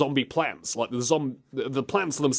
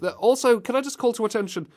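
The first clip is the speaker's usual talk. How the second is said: ordinary delivery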